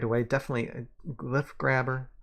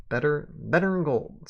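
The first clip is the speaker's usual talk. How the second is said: louder Southern sheriff voice; Southern accent; 3 semitones higher, 4 dB louder than usual. Acted. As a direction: relish it with a Southern twang. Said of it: "I can do the accent".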